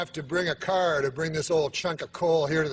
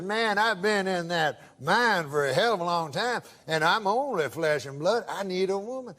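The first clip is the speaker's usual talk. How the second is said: drawling prospector voice. Retold or imitated. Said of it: "I can tell by the accent".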